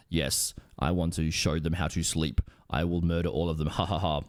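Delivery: low, sinister villain voice with a mock laugh; a cartoon villain plotting murder, low; villainous Ackers. Ackers plotting to murder the rescuers, low and sinister. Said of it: "Ackers villain voice".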